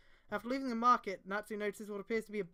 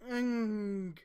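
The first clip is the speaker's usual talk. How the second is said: mild groan; 4 dB louder than usual. A narrator's reading. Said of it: "the veteran shinobi groaned".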